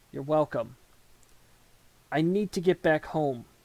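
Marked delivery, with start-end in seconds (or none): none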